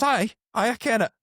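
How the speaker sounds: high, keen agreement; girl eagerly agreeing to the cop, pitched high. Retold or imitated. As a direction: pitch it up like she's suddenly on board. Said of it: "She goes".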